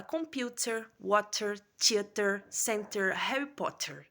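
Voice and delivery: American "water" with a sounded r; American "Harry Potter", r rolled through; American accent. Shown as a demonstration. Teacher to class, plain American-accent "Potter". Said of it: "o americano, ele fala".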